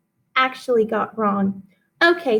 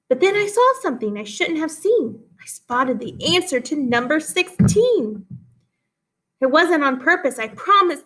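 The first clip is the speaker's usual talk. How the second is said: lively read-aloud with big rises in pitch; expressive poem reading; 2 semitones higher than usual. Acted. Teacher reading a poem to her class, animated read-aloud. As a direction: read it like a storybook poem for kids.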